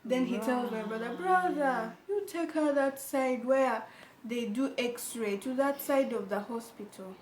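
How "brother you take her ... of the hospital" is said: nagging doctor. Retold or imitated. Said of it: "he was really nagging".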